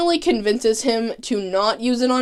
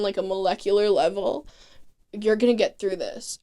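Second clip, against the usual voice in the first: mock soothing Cisco; 3 dB quieter than usual. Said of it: "Cisco's like".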